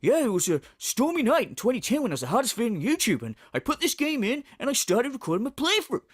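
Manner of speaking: mock rambling streamer storytelling; lightly hammed-up reminiscing; Phil impression. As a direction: imitate a streamer spinning out an anecdote. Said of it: "And then he'll go".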